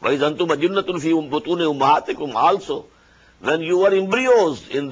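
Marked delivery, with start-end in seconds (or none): 0.0-2.3 melodic, measured tajweed chant; Quran recitation. Acted. Teacher recites the verse to his students, chanted tajweed. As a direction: intone the verse as in prayer.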